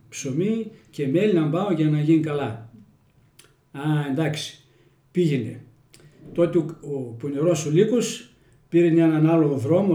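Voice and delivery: Little Red Riding Hood told in broad Kozani Greek dialect; folksy village storyteller in Kozani dialect. Shown as a demonstration. Telling a fairy tale to the interviewer, in Kozani dialect. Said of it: "Στα κοζανίτικα".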